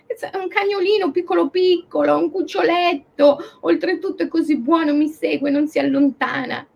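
high pleading voice. Retold or imitated. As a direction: plead sweetly for the little dog. Owner pleads for her puppy.

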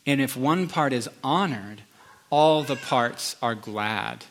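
slow, deliberate reading of the verse; slow scripture reading. Shown as a demonstration. Pastor reading a beautiful passage to the congregation, slow and deliberate. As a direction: let each phrase land slowly. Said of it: "Listen to this beautiful passage".

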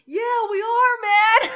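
high, loud, laughing; laughing mock bro voice. Date answers proudly.

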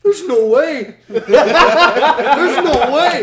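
loud, high shriek of disbelief; over-the-top stunned yell; imitating disbelieving son. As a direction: cry out in total shock, way up in pitch. Son sees the refilled counter.

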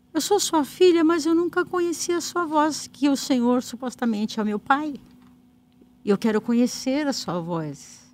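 retold prayer, high at first then settling; imitating a heartfelt prayer; retold earnest plea. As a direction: plead to God, as remembered. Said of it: "Com todo o meu clamor".

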